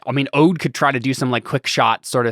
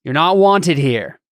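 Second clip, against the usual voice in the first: slow, loud warning; threatening; 4 semitones higher, 5 dB louder, slower than usual. Acted. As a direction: spell out the threat slowly. Hostage-taker threatens.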